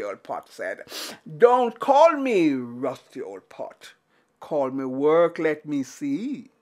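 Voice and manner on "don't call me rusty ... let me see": lower, slow, deliberate pot voice; slow magic pot. Acted. Magic pot answering Anansi, slow and low. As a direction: lay it down slowly, mysterious and sure.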